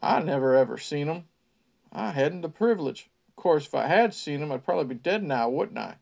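put-on folksy old local spinning a tale; old country man. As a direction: spin it like a creepy small-town storyteller. Ned's line in character.

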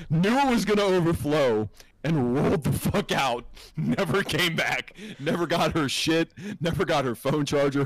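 high, loud, incredulous storytelling; indignant rant. Retold or imitated. Telling co-host how she clogged it and fled, incredulous rant. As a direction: punch out each outrage, high and loud. Indignant punchline about coworker fleeing.

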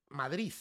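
"Madrid" said as Madrí, final d dropped, stress on the last í. Shown as a demonstration. Explaining the Madrid way to a guest, "Madrid" as Madrí. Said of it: "como si tuviera tilde en la I".

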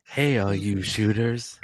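slow, creepy host whisper; hammed-up creep greeting. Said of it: "white panel van stalker voice".

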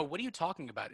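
mock-indignant New York accent; worked-up New York accent. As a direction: put a New York vowel on "talking". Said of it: "if I get really worked up".

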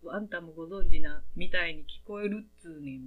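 loud, snappy mock scolding; mock-annoyed shout; rough retort. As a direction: throw it back like an irritated friend. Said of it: "みたいな感じで言われて".

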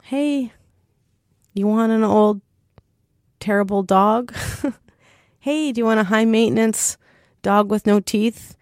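upbeat hard sell of an unwanted dog; mock sales pitch. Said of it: "And I would ask friends".

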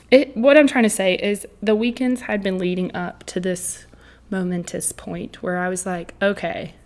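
winded after a run, catching breath. Real, not acted. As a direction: talk while still panting from running. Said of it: "catching my breath again from my four-mile run".

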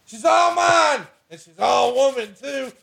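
high, drawn-out put-on drawl of pride; mock redneck husband showing off his wife; hammed-up proud husband. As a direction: boast to the fellas in a silly high voice. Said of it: "And then I said".

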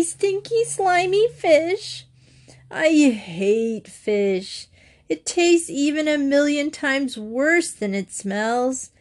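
put-on high, slow whiny kid griping; sulky boy complaining loudly about fish; loud complaining child. A narrator's reading. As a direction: stretch every yucky word in disgust. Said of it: "complaining in a loud voice".

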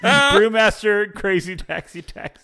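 slow, drawn-out trailer announcer. Pretend. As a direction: sell the game title like an ad. Jokey game title pitch.

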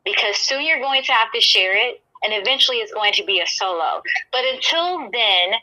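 steady, confident promo delivery to a rival; wrestling promo. Pretend. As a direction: cut a calm, cool wrestling promo. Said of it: "if you can cut a promo".

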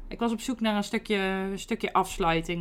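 usual speaking voice

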